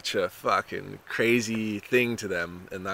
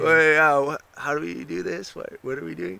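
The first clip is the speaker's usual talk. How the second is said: higher, spacey surfer dude; dumb surfer voice; 8 semitones higher, 6 dB louder than usual. Retold or imitated. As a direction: play the clueless beach bro. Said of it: "dumb sounding surfer voice".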